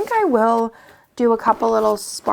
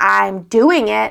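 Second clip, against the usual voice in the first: utterly, dead-serious tone; 3 dB louder than usual. Retelling a three-year-old's reply while her hair is done: imitating Lila, very serious. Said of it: "so serious, like, straight faced".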